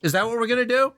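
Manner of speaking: high, pointed sarcastic question; mock innocence with a bite. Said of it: "bitterness or sarcasm".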